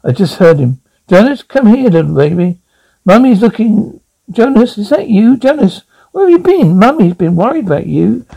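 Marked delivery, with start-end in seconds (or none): 1.1-8.2 high, cooing call to a lost pet. Acted. Wife searches for her missing pet, cooing and worried. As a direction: coax the baby back home.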